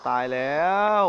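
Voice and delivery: oh no, real fright; alarmed. Real, not acted. Alarmed in horror game.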